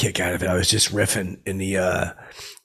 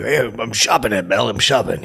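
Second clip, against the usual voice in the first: lightly voiced buddy, close to own voice; a hint of a casual friend caught shopping; Quinny impression. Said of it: "I do the impression too".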